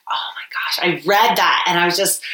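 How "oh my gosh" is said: breathless whispered shock; hushed disbelief at an old diary; stunned whisper. Retold or imitated. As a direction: whisper it like you can't believe what you read. Shocked reading old journal entry.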